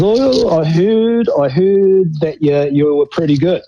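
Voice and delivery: mock the coach's offhand praise, fading back; Gordy Hunter's style. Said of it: "Gordon Hunter's style, of course".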